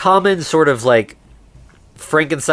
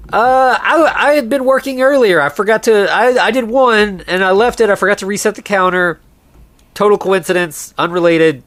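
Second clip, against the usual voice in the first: flustered excuse; 6 semitones higher than usual. Retold or imitated. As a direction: blurt it out, nervously covering. Flustered excuse voiced in retelling.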